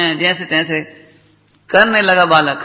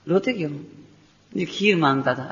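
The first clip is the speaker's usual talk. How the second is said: hushed dialogue; 6 semitones lower, 10 dB quieter than usual. Retold or imitated. Quiet exchange with merchant.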